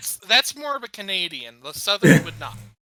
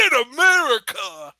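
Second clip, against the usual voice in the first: catchphrase shout; 6 dB louder than usual. Retold or imitated. Asking about a catchphrase.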